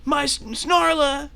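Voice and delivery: high, slow mock-anguished call; crying out. Companion calls out to his princess, high hammy wail. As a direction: stammer into a melodramatic cry. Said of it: "he cries out".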